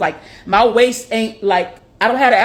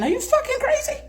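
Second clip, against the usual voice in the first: mock outrage; 5 dB quieter than usual. Mock outraged reaction to compliment.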